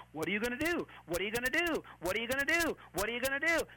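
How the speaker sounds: lightly voiced nagging, repeated over and over; insistent repeated taunt; nagging Satan. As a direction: needle with the same question, stress on the final DO. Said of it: "such an annoying racket going on".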